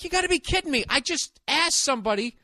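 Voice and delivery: high, incredulous whine; exasperated disbelief. Retold or imitated. Ranting at the DMV counter, high and incredulous. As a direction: squeak it out in disbelief. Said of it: "I'm like".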